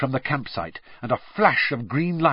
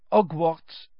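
put-on higher-pitched French girl; French accent; 6 semitones higher than usual. A narrator's reading. French girl walks off from the strangers, French accent.

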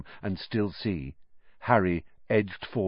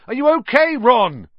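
much higher, louder anxious call; 10 dB louder than usual. A narrator's reading. Harry calling to trapped Ron, loud high worry. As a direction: call across the rubble. Calling through rock fall.

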